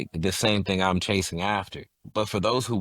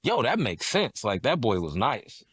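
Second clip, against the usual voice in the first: impressed fan; 4 semitones higher than usual. Retold or imitated. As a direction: imitate an impressed listener, pitched up at first. Voices impressed audience afterwards.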